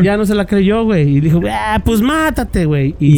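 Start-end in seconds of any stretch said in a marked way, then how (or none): 1.5-2.9 drawn-out, higher-pitched dismissal; desdén imitado. Retold or imitated. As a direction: brush off a threat you don't believe, dragging it out. Retold dismissal of a suicide threat. (desdén alargado, como quien no se la cree)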